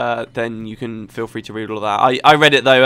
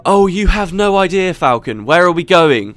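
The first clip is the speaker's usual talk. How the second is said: exasperated, higher-pitched game character; frustrated player; 4 semitones higher, 3 dB louder than usual. Acted. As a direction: act out fed-up disbelief at the guide. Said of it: "The player gets frustrated".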